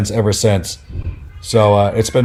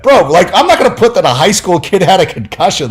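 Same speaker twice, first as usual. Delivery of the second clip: laughing; 8 semitones higher than usual. Real, not acted. Laughing while retelling argument.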